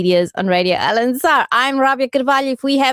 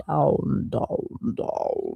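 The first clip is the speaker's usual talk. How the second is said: each down softer until whispered; fading down; 9 semitones lower, 10 dB quieter, much slower than usual. Pretend. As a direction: voice sinking lower and softer. Teasing that he was sick.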